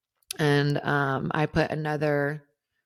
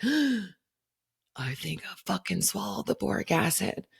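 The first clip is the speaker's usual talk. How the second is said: dawning dread; 4 semitones higher, slower than usual. Retold or imitated. Realizing she swallowed it.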